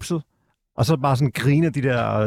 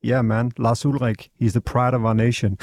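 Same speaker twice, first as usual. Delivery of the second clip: ice cold; 3 semitones lower than usual. Retold or imitated. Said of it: "Så siger jeg sådan helt koldt".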